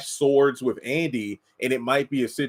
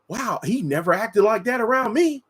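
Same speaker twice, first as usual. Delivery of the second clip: put-on country accent; 9 semitones higher than usual. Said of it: "I got a country accent there".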